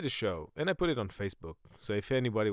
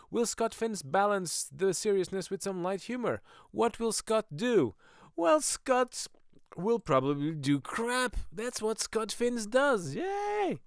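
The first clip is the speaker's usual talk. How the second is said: high, slow hammed-up announcer hyping himself; 9 semitones higher, slower than usual. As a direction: announce yourself like a cheesy game-show host. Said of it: "Because I was, uh, I, I don't talk to, about myself in the third person".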